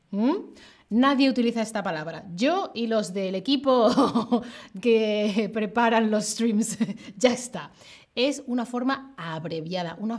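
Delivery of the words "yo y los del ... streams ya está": amused, words broken by real laughter; laughing while talking. Real, not acted. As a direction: chuckle through your own joke. Jokes that nobody uses word.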